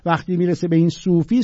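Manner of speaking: normal talking voice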